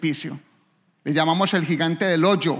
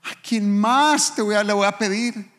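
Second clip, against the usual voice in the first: tearful prayer; 5 semitones higher than usual. Retold or imitated. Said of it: "empecé a llorar".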